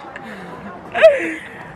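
high burst of laughter. Real, not acted. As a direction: laugh out suddenly, high and loud. Friends laughing out on the trip.

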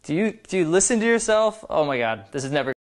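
low mock exasperation; playful mock dismay, trailing down low; playful teasing. Shown as a demonstration. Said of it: "It should be like".

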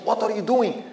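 mild mock indignation; upset. Bystanders challenging the slanderer, mildly upset. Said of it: "So people got really upset".

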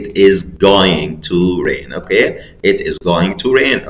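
"It is going to rain" slow, every word clear; slow model answer. Shown as a demonstration. Teacher giving pupils the right answer, slowly. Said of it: "امال اقول ايه؟".

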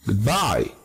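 "goodbye" stressed on BYE; second-syllable stress. Shown as a demonstration. Teacher reading out examples, "goodbye" accented on second syllable. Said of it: "adiós en la segunda".

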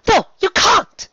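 very high, loud cry; alarmed protest. A narrator's reading. Rarity stopping Spike from fighting gargoyles, alarmed protest. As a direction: forbid it in a panicky high voice.

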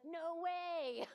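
high, loud burst of disbelief; amazed. Retold or imitated. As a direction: blurt it out in happy shock. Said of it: "I was like".

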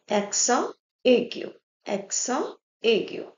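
accent aigu as "ekso ay-gyu"; French accent with silent t, then aigu; French term. Shown as a demonstration. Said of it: "How we pronounce the word accent in French".

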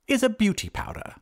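high-voiced wizard thinking aloud; high, thoughtful reply. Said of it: "replied the wizard thoughtfully".

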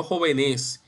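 jove-NÉS, last syllable stressed; wrong final stress. Shown as a demonstration. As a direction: say "jóvenes" wrongly as joveNÉS. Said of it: "no jóvenes".

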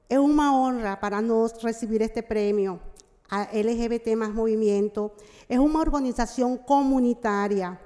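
Portuguese mixed with Spanish; portunhol. Real, not acted. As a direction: speak in Spanish-tinged portunhol. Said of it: "Eu vou falar um pouco em portunhol".

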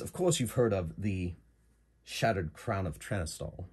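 lightly put-on British accent; a hint of English accent; Mirandol's British accent. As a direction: say it as a British client, lightly voiced. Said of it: "So she has a British accent".

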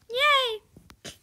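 high cheering yay; high excited yay. Real, not acted. Cheering at return.

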